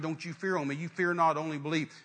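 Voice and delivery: firm orders, one group after another; mildly stern commanding voice. Acted. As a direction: take charge, brisk and no-nonsense. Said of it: "he gets real stern".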